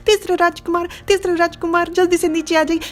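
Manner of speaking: high, flustered sentry's call; panicked calling out. A narrator's reading. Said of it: "पूरा घबरा गया और चिल्लाकर कहता है".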